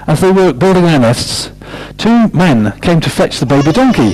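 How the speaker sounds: lively picture-book read-aloud; story reading. Acted. Storyteller reading aloud to children, lively manner.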